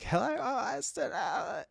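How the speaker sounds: high, thin nervous voice. Shown as a demonstration. Streamer mimics a nervous girl's greeting, high and thin. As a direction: pitch it way up, nervous and unsure. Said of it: "It's like".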